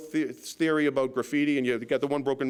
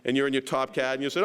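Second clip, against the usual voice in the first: ordinary talk, nothing marked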